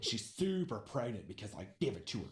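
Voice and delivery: loud, low bragging bro voice; mock boastful bro. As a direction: boast like a cocky jock. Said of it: "Zach voiced, boasting".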